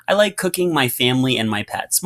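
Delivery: one unbroken rush, no pauses between the items; read without pauses. Shown as a demonstration. Teacher reading the sentence wrong with no pauses, run together. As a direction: run the list together with no breath, deadpan. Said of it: "Let's read it without commas, without pauses".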